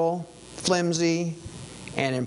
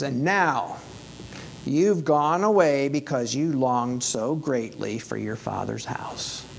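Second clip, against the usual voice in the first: taunting. Retold or imitated. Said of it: "He was taunting".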